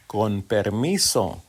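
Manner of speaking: Con permiso said at normal speed; back to normal speed. Shown as a demonstration. Teacher repeating Con permiso at normal speed. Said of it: "I'm gonna slow it down".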